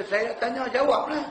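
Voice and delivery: slap the floor and insist he answers; angry demand. Retold or imitated. Old villager angrily demanding an answer from the ustaz. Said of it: "Dia marah kita".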